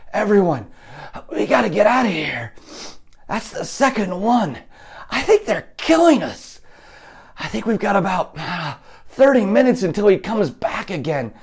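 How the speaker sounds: high, strained panicky prisoner; desperate captive calling to fellow prisoners. Acted. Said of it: "you hear a strained voice say".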